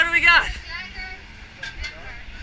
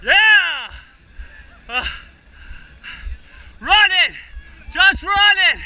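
cheering on; 5 semitones higher, 3 dB louder, slower than usual. Real, not acted. Cheering on finishers at line.

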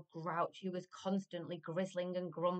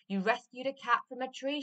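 put-on high, loud, eager little boy; narrated shout; 8 semitones higher, 8 dB louder than usual. A narrator's reading. Jack praising the giant for rescuing a cat, eager shouting. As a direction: call it out brightly to the giant. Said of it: "shouted Jack".

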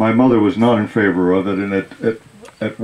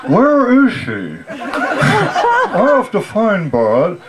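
confused father; 4 semitones higher, slower than usual. Retold or imitated. Father confused, calls for daughter.

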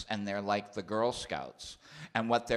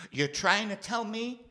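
much higher, rising incredulous rant; mock disbelief; 14 semitones higher, 3 dB louder than usual. Real, not acted. Comedian marveling that a mafia boss saw his show, rising disbelief. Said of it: "incredulous rant".

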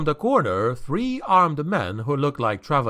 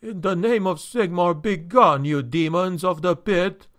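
higher-pitched, mildly hammed-up frightened cry; a touch of fearful quaver, pitched up; 6 semitones higher than usual. A narrator's reading. Innkeeper banishing supposed demons from behind the door, quavering cry. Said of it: "quavering cry".

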